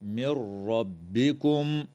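من ربكم merged as مِرَّبِّكُم with no nasal hum; idgham without ghunna. Shown as a demonstration. Teacher showing the merge to students, slow chant. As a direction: slide the نون straight into the راء. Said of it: "وتدغم النون الساكنة في الراء من غير غنة".

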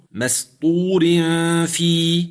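مسطور في recited with a pause before في; recitation demo. Shown as a demonstration. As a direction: recite it as a model with a light ر. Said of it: "الراء هنا مكسورة".

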